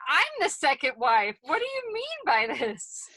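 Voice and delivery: offended rising question; indignant. Retold or imitated. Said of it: "And I was like".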